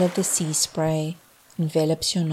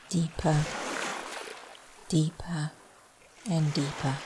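trailing off; 7 dB quieter than usual. Shown as a demonstration. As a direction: let the voice fade out into sleep. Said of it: "As my voice trails off".

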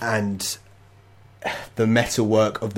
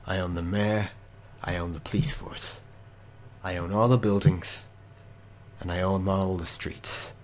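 softer, quiet menace of a villain who owns everything; menacing city owner; 3 dB quieter than usual. Acted. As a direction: purr it like a quiet tyrant. GM voices the city's owner.

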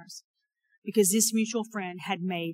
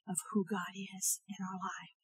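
hushed whisper; 6 dB quieter than usual. Real, not acted. Preacher drops voice mid-point.

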